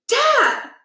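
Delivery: put-on teen son stopping dad's puberty talk, mortified; embarrassed protest. A narrator's reading. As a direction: cut him off in embarrassment.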